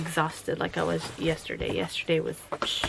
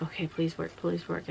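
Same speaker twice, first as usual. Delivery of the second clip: quiet, mild begging; murmured little plea to a machine; hushed pleading; 6 dB quieter than usual. Retold or imitated. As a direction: softly plead under your breath.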